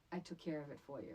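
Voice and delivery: hushed, fast, secret whisper in her ear; a pretend avenger's hushed whisper; mock whisper. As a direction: lean in and breathe it softly, quickly. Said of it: "whispered into her friend's ear".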